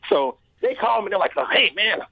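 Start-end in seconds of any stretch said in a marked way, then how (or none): 1.4-2.0 a light put-on of a slick fight promoter; grimy promoter voice. Promoter phoning a fighter with an offer, grimy promoter voice. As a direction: sell the offer like a shady promoter. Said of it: "let me stop giving this dude this voice".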